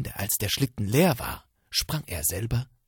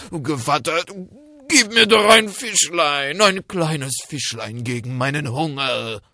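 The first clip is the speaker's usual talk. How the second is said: wolf faking sweetness; 6 semitones higher, 10 dB louder than usual. Acted. Wolf begging again.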